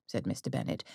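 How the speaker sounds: usual speaking voice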